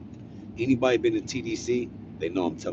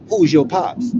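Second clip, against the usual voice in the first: pushy question; 8 semitones higher, 8 dB louder, slower than usual. Retold or imitated. Guard pressing him, retold.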